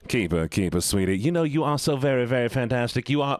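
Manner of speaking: put-on sweet-talking Southern accent. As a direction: praise them in a Southern accent. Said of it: "we're gonna go back to the Southern voice".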